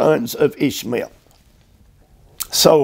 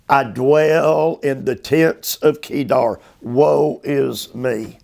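slow, drawn-out reading of a psalm lament; preacher reading a lament psalm, slow and heavy; slow scripture lament. Acted. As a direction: let each woe hang mournfully. Reads psalm lament slowly.

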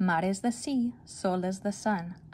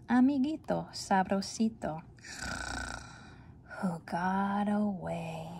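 sleepy poem. Acted. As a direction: lull the words like a dozing cat. Slow sleepy cat poem.

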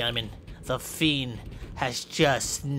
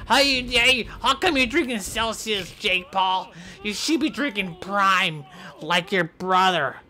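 mocking taunt; 5 semitones higher than usual. Kid taunting a wrestler in a high jeering voice.

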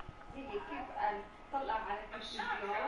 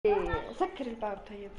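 yelling across the room; 8 dB louder than usual. Real, not acted. Telling someone to shut the door.

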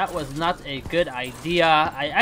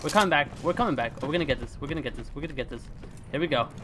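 focused self-talk; 5 semitones lower, 6 dB quieter, faster than usual. Real, not acted. Focused self-talk during comeback.

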